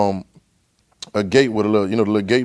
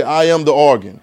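call for response. Shown as a demonstration. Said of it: "One more time".

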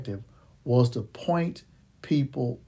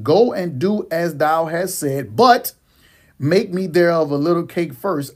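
scripture reading. Acted. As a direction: proclaim the Bible passage. Reads scripture aloud.

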